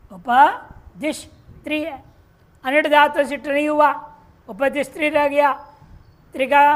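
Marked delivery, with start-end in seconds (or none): 0.1-1.2 slow demo. Shown as a demonstration. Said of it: "teacher spells out the form".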